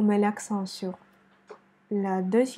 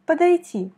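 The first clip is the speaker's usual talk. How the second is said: Подойти higher and louder on the final и; stress on Подойти; 5 semitones higher, 7 dB louder than usual. Shown as a demonstration. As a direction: punch the last syllable of Подойти. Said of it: "c'est la dernière voyelle I qui est accentuée". (accent fort sur le dernier и de Подойти)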